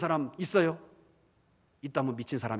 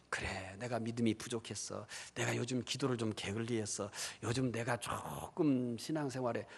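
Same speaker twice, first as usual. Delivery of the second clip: self-persuading mumble; 4 semitones lower, 8 dB quieter than usual. Retold or imitated. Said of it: "설득을 할까요".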